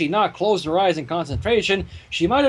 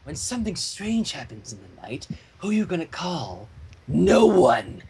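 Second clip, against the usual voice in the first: spooky parody; slower than usual. Pretend. Parodying a famous movie theme jingle, spooky then shrieking.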